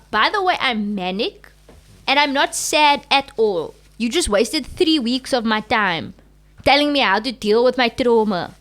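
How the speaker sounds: defiant reveal. Retold or imitated. Retold reveal to therapist.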